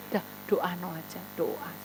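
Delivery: normal talking voice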